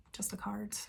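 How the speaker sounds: a whispered punchline; deadpan whisper. Acted. Telling viewers she only had a card, whispered. Realising she has no cash.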